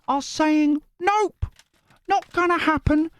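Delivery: very high, slow squeaky voice; high-pitched viewer voice. Retold or imitated. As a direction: read her message in a silly squeak. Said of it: "all the voices are me".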